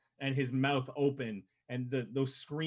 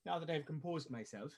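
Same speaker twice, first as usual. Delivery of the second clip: barmaid voice. Acted. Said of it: "as she comes back out and goes".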